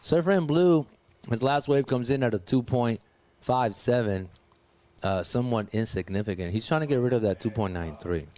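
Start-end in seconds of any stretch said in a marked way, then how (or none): 1.3-8.3 talking around candy; words round a hard candy in mouth; sucking a hard candy. Real, not acted. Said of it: "Sorry, I have candy in my mouth".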